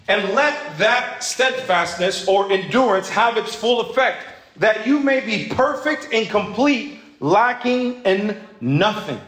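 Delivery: slow, deliberate Bible reading; measured reading of scripture. Acted. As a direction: read each word of the verse with weight. Reads scripture aloud.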